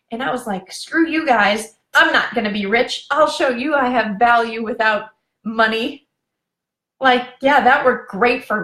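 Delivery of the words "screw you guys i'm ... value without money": defiant. Retold or imitated. Retold defiant reply.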